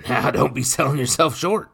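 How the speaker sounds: high, loud boozy mockery; loud drunken brute teasing the boy; drunken brute mocking. A narrator's reading. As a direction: tease him like a drunk lout. Nathan's mock advice, voiced.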